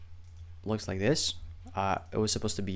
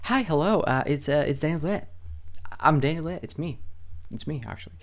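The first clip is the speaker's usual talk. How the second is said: a lightly voiced bashful hello, pitched higher; awkward self-introduction; 5 semitones higher than usual. Shown as a demonstration. Newsletter writer introducing himself to readers, lightly bashful and high. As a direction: play it like shyly introducing yourself to a stranger. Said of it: "And you start".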